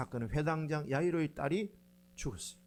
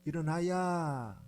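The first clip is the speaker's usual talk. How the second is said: slow Jeolla drawl; Jeolla dialect; much slower than usual. Shown as a demonstration. Preacher showing 'get up' in Jeolla dialect, drawn out. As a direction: draw out the last syllable in Jeolla dialect. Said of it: "전라도 방언으로는".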